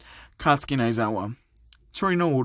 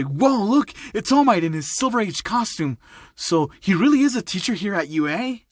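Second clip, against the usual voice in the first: raised pitch, starstruck amazement; excited; 5 semitones higher than usual. Acted. Student spotting a famous hero in class, excited. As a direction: gush as if spotting an idol. Student thrilled by hero's arrival.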